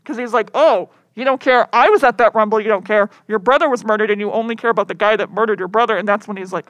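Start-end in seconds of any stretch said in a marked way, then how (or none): 0.6-5.9 loud retold accusation; mock pissed-off. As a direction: lay into her, lightly acted. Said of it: "he's fucking pissed".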